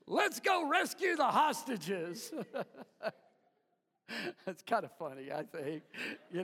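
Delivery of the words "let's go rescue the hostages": laughing soldier line. Retold or imitated. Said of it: "they would hear".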